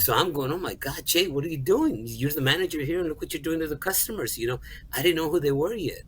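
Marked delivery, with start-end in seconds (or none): 0.5-4.4 higher-pitched retold dismay at himself; self-reproach. Manager berating himself for upsetting customers, higher dismayed self-reproach. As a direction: scold yourself in a higher, alarmed inner voice.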